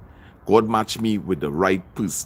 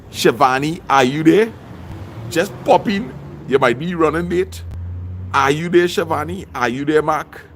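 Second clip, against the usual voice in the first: calling out; 5 semitones higher than usual. Real, not acted. Calling out to absent viewers.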